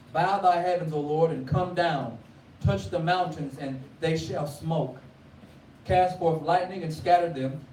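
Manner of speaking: measured scripture reading, a touch of preaching lift. Acted. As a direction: read the psalm with solemn lift. Reads the Psalm aloud.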